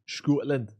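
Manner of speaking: playful try at a Scottish accent; one word in mock Scottish. Shown as a demonstration. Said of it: "Do you want me to do my Scottish accent?".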